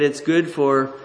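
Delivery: loud, eager Eve reading; Eve voiced loudly. Preacher voicing Eve craving the fruit, loud and eager. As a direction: proclaim Eve's longing for the fruit. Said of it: "She said".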